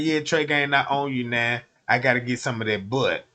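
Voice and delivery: lazy, greedy boss demanding his due; imitating the label boss who claims him; mock boss voice. Voicing the boss's reply.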